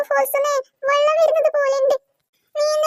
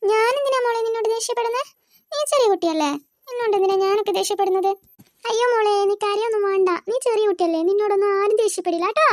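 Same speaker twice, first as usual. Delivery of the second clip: a lightly voiced lower aunt soothing the child; gently lower, a hint of a kind aunt; aunt comforting; 4 semitones lower than usual. Aunt reassures the crying girl, lightly lower and soothing.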